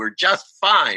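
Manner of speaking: put-on angry voice. Retelling what a client said when asked about her mother: imitating an angry voice. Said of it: "she said in a angry voice".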